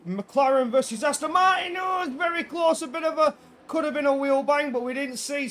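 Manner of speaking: loud, high thrilled shout; excited shout. Real, not acted. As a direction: yell the battle as it happens. Commentator shouting at close battle.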